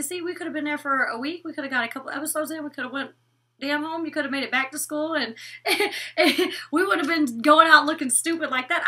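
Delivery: high, giggly teasing rant; laughing rant. Retold or imitated. Vlogger telling Kelsey they could've gone home, high laughing rant. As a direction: tease your friend while cracking up. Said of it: "that's what I told Kelsey".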